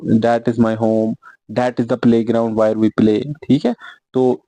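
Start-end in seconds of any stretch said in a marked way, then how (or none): 0.0-3.3 each word spaced out slowly; teacher dictating slowly; slow dictation. Shown as a demonstration. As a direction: read it out slowly for the class to copy. Teacher dictates example sentences.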